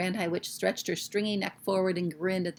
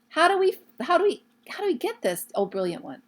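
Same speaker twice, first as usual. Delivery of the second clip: high, pleading fawning witch; eager witch; 9 semitones higher, 6 dB louder than usual. Acted. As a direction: beg the leader for the secret.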